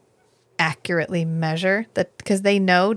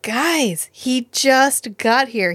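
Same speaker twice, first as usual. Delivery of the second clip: higher, louder and slow, pleading for patience; exasperated plea; 6 semitones higher, 4 dB louder, much slower than usual. Retold or imitated. Stilgar defending Paul to the crowd, exasperated plea. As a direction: drag out the words to calm the crowd.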